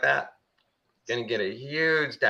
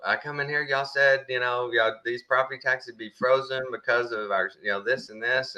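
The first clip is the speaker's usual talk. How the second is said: put-on old man at the tax office; 3 semitones higher than usual. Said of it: "I can hear him talking clear as a bell".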